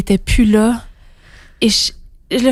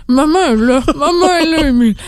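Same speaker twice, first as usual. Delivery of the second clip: put-on crying out to baby; 5 semitones higher, 4 dB louder, faster than usual. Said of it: "Et là, je crie, puis je pleure".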